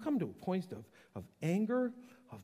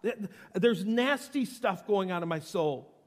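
raised voice, hiding nothing from God; blunt confession; 3 semitones higher, 5 dB louder than usual. Acted. Gut-honest Elijah to God, loud and blunt. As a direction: lay it out loudly. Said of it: "He just lays it out".

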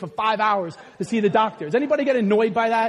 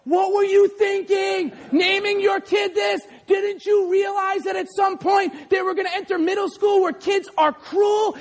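mock scolding; 8 semitones higher than usual. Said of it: "slap them up beside the head and go".

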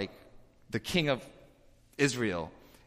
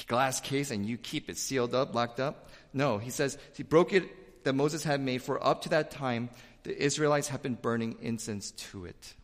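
ordinary talk, nothing marked

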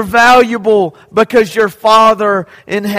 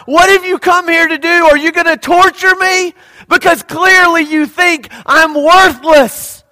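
demoniac's cry; 5 semitones higher than usual. Acted. Possessed man crying out to Jesus.

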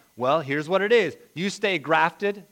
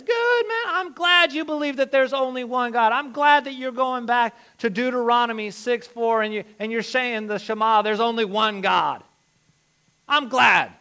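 mock congratulation; 4 semitones higher, 5 dB louder than usual. Acting out James's mock approval.

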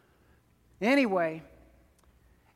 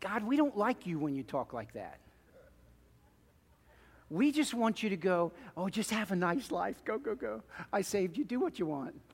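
mock plea to God; 5 dB quieter than usual. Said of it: "congregation voiced talking to God".

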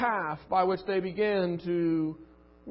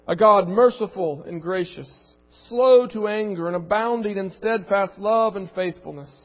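scripture reading; 4 dB louder than usual. Real, not acted. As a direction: read it like a weighty proclamation. Reads scripture aloud.

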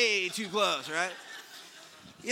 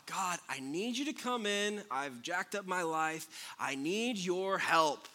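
prayer; 3 dB quieter than usual. Acted. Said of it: "starts with praying to God".

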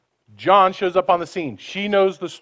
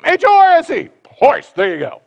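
much higher and louder, bright and eager; happy, patient helping; cheerful helper; 10 semitones higher, 8 dB louder than usual. Retold or imitated. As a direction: spell it out gladly for a child. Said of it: "He's happy to help".

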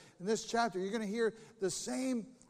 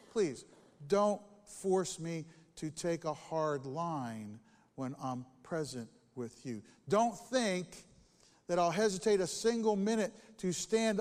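scripture reading; 3 dB louder than usual. Acted. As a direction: read the letter with weight. Reading Paul's letter aloud.

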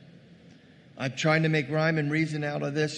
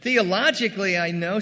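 higher, louder know-it-all reply; know-it-all Martha; 4 semitones higher, 6 dB louder than usual. Acted. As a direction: insist she already knows. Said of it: "here comes Martha".

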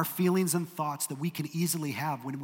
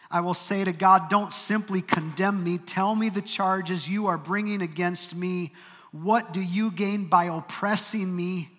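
louder, higher, slower plea to God; pleading accusation; 3 semitones higher, 4 dB louder than usual. Acted. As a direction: press God for answers, aggrieved. Job's accusing prayer read aloud.

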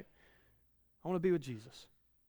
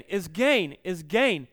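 emphatic repetition; 7 dB louder, much slower than usual. Acted. Preacher repeats with force.

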